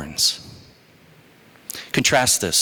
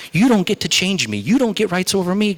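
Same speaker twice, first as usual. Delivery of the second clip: raised, forceful declaration; God declaring; 6 semitones higher than usual. Acted. God to Moses, raised declaration. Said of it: "God says".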